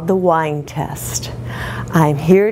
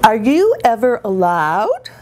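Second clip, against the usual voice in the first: mock three-star whine, pitched higher; raised-pitch, exaggerated husband's whine; aggravating whine; 4 semitones higher than usual. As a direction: imitate a husband's aggravating complaint. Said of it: "goes right to three-star wine".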